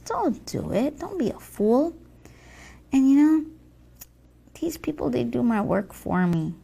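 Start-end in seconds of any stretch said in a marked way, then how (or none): 0.0-1.9 voiced tempting. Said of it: "And then I say to them".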